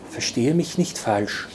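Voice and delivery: a hint of a smoky, seductive woman; the woman stepping up to Kintai, lightly smoky. A narrator's reading. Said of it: "sagte sie mit rauchiger Stimme".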